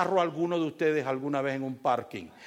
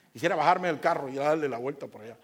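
laughing through the words; half laugh at his own anger; 3 semitones higher, 3 dB louder than usual. Real, not acted. (riéndose de su enojo)

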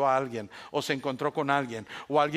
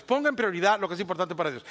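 quicker, pushing the same line again; faster repeat; faster than usual. Shown as a demonstration. Pastor repeats the point to the congregation, faster. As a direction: rattle it off faster the second time.

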